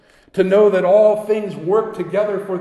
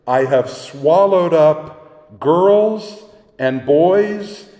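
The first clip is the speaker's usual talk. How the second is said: solemn lion; slower than usual. Acted. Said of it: "the lion says".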